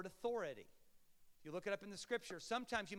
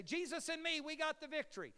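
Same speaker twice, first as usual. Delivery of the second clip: higher, lightly mocking boast; a hint of smug believer; 9 semitones higher than usual. Pastor lightly mocking believers who claim the victory. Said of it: "Have you ever heard people say".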